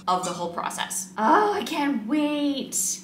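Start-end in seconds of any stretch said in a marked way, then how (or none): 1.2-3.0 high, slow gushing excitement; drawn-out thrilled squeal; excited. Real, not acted. Excited about new hair.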